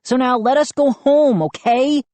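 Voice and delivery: high, falsely jolly pleading; high, strained good humor; forced cheer. A narrator's reading. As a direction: play along, high-pitched and eager. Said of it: "forcing a hoarse laugh".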